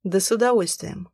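sneering, spat-out reply. A narrator's reading. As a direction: spit the words with contempt. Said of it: "выплюнул Бал".

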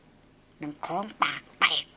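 soft grumbled curse under the breath; muttering. A narrator's reading. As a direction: mutter it low and slow. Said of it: "หล่อนบ่นอุบอิบ".

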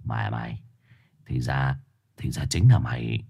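low growled menace; growling. Acted. Dog-spirit growling at the old shaman. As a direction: growl it through bared teeth. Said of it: "nhe răng gầm gừ".

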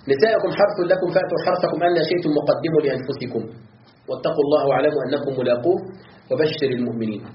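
measured, even recitation of the verse; Quranic recitation. Acted. يتلو الآية قبل شرحها. (تلاوة مرتلة للآية تنتهي بهدوء)

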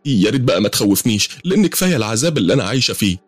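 high, hurried pleading; scared, trying to talk him down; rising frightened protest. Acted. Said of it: "خفت وقلت".

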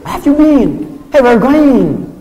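high-pitched imitation of an English speaker; mock English accent. Preacher showing off language mimicry, hammed-up English accent. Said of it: "Bahasa Inggris seperti orang Inggris".

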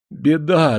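high, loud cry of alarm; trembling voice. A narrator's reading. Sergeant at attention reports trouble to major, voice trembling. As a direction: repeat the alarm, shaken. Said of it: "дрожащим голосом повторил он".

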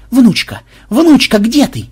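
high, loud call; searching call. Acted. Programmer searching the cells for his friend, calling out. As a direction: call out to find someone. Calling for a captive behind doors.

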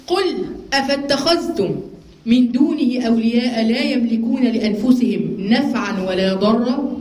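slow, measured recitation of the verse; slow Quranic recitation. Acted. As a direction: recite it deliberately, word by word.

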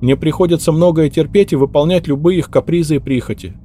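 put-on high, anxious young maid's voice; the maid explains herself, high and anxious; hurried maid's confession. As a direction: rush out the confession, scared.

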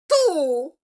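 high scornful sneer; mocking. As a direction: scoff at her. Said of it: "dijeron burlonas las dos".

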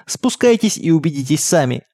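mild narrated summons; calling out. A narrator's reading. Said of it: "позвал мой отец".

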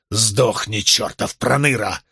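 understated brute's roar; a hint of a raging brute; roaring grunting brute. A narrator's reading. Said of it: "взревел он". (сдержанный рёв грубияна)

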